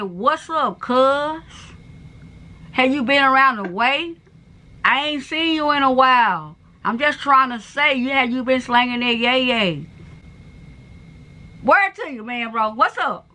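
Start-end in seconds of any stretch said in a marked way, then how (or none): 0.0-9.9 slow, measured, careful repeat; slowed right down. Real, not acted. Repeating for someone with little English, slow and careful. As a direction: spell it out slowly for a non-native listener. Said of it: "You speak too fast".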